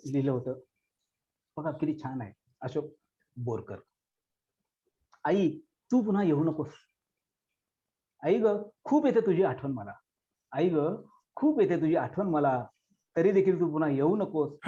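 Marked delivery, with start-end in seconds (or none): 5.2-14.6 pleading poem recited with feeling; heartfelt Marathi poem recitation. Acted. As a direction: speak it as a child longing for her mother. Recites girl's poem to mother.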